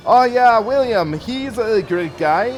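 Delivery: a quick, playful put-on Indian accent, slowing at the end. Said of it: "I just did an Indian accent for that".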